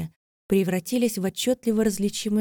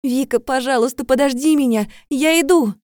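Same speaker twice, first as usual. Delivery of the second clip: higher, louder pleading call; desperate shout; 6 semitones higher, 9 dB louder than usual. A narrator's reading. Girl in the tunnel begging Vika to wait, shouting. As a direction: yell after her, begging her to wait. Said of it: "крикнула я изо всех оставшихся сил".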